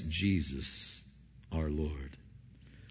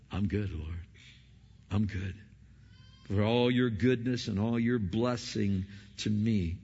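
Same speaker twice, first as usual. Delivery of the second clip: content trust; 2 semitones lower than usual. Pretend. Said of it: "Paul's saying".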